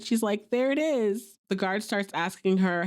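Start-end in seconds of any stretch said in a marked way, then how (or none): 0.5-1.4 excited. Retold or imitated. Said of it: "Piper's so excited".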